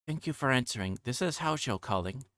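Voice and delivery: a hint of a little girl on the phone; young girl Satoko. Satoko politely phoning the Sonozaki house, lightly girlish.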